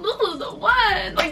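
giggly delighted reveal; laughing. Real, not acted. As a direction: laugh out this is the one. Delighted over the set.

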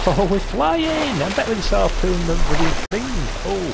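high, loud thrilled yelling; excited shout. Real, not acted. Gamer yelling at his hooked fish, high and loud with excitement. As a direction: burst out with real thrill.

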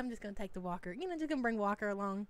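hint of a breezy YouTuber shrugging it off; mock nonchalant. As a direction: toss it off like it's no big deal. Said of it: "You just act like it ain't a big deal".

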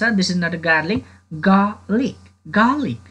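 garlic said as "gahlik", no R sound; teacher showing garlic with silent R. Shown as a demonstration. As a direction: garlic without the R. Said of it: "आर चाहिँ silent हुन्छ".

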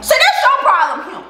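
scolding. Acted. Scolding viewer.

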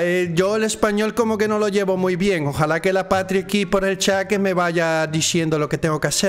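light put-on Spain Spanish accent. Player admitting he is bad at a Spanish accent. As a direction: try out a Castilian accent, unsure. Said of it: "Esto es Among Us con acento español".

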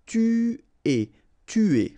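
"Tuer" repeated with a French ü, tü-AY; "tuer" said clearly twice; careful model word. Shown as a demonstration. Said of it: "U is really pronounced like U".

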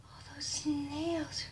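slow, hushed, stunned whisper; speechless whisper. Real, not acted. Stunned by the tiny fingers, slow whisper. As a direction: barely get the words out. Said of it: "I am speechless".

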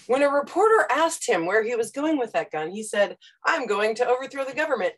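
stiff newspaper phrasing; newspaper style. Retold or imitated. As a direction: recite like a dry news report. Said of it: "New York Times style writing".

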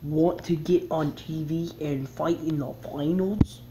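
slow, put-on announcer-type read; game character voice. Gamer voicing the game host, slow put-on voice. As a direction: drawl it out like a cheesy host. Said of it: "I sound like some bad".

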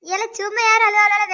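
high, loud, drawn-out reproach; indignant challenge. Acted. Neighbour to husband over his crying wife, indignant.

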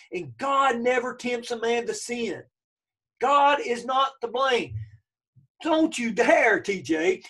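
slow, emphatic preacher's admonition. Retold or imitated. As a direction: drive each phrase home with drawn-out stressed words. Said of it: "he's saying very emphatically".

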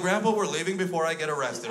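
loud, urgent acted order; mock panic. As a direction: hustle the child out. Hurrying child out, acted panic.

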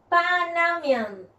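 Panamian said slowly, syllable by syllable; slow model word. Shown as a demonstration. Teacher sounds out the nationality slowly for students.

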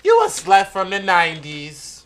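fed up. Retold or imitated. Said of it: "She was so fed up".

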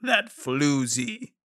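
slow, drawn-out mock villain line; hammy villain drawl, stretched slow; slow theatrical villain menace. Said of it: "we could have him do a bad guy voice".

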